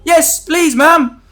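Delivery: very high, loud, puppyish plea; hammed-up eager little brother; eager Josh voice. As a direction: beg like an overeager kid.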